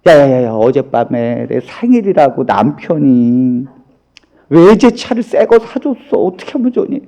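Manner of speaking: hammed-up humblebrag; mock bragging. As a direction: imitate a friend showing off. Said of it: "자기 자랑만 하고 있어".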